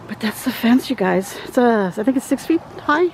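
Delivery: breathless, catching breath between phrases; winded from walking the yard. Real, not acted. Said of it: "I'm sorry I'm out of breath".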